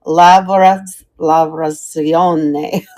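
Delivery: "Lavrazione" slowly, syllable by syllable, a tentative Italian try; trying an Italian accent. Shown as a demonstration. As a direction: stretch out "Lavrazione" like an unsure Italian attempt. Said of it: "say this like Dano says it".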